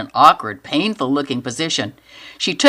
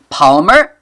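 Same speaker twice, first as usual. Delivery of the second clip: calling out; 7 dB louder than usual. Acted. Calling out uncertainly.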